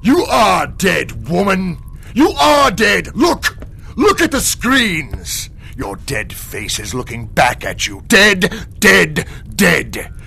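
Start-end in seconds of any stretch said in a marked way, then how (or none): 0.0-5.5 furious shout. Acted. Demon roars at frightened woman. 8.1-10.1 furious shout. Acted. Demon repeats the word, yelling.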